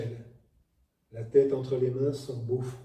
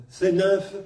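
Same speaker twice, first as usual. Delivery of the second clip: pitch range demo. Shown as a demonstration. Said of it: "Vous voyez l'écart?".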